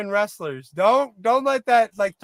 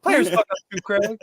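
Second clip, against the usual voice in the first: movie quote impression. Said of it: "That was a callback to Next Friday".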